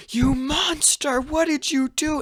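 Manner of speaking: high, loud mock scream; Sakura. Sakura screaming at Naruto on seeing his eyes, acted scream. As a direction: shriek it in a high, drawn-out voice. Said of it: "and she screams".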